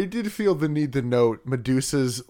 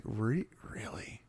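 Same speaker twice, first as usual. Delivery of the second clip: quiet disbelief; 5 semitones lower, 14 dB quieter, slower than usual. Retold or imitated. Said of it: "I'm just like".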